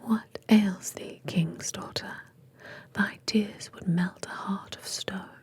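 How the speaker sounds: slow whispered British frog voice; lightly British, drawn-out whisper for the frog; British accent. Acted. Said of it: "I don't know why they're British".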